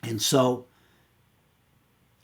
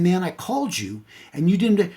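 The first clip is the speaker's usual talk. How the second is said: higher-pitched retold grievance; aggrieved complaint; 7 semitones higher than usual. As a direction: replay a husband's indignant complaint to his wife. Acted quarrel with wife.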